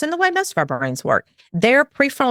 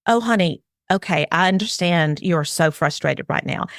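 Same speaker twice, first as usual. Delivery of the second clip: soothing parent; 3 semitones lower than usual. Shown as a demonstration. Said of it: "validate their emotions and go".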